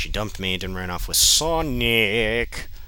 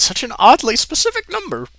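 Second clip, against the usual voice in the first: holding back laughter; 12 dB louder than usual. Real, not acted. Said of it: "I'm trying not to laugh".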